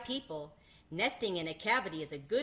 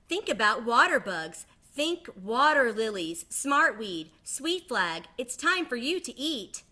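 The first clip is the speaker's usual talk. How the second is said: louder, enticing mother; mama duck luring hungry babies; tempting mama duck; 4 semitones higher, 6 dB louder than usual. Acted. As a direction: make the food sound delicious.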